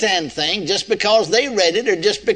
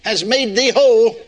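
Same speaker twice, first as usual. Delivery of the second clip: deliberate misquote; 6 semitones higher, 3 dB louder than usual. Shown as a demonstration. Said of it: "Oh, no, I missed that".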